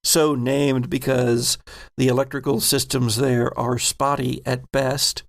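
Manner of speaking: measured game master narration; scene narration. Acted. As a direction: set the scene for the players.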